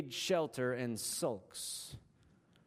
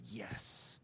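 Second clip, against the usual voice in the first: defiant Jonah; 5 semitones lower, 4 dB quieter than usual. Acted. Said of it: "Jonah shakes his fist at God and says".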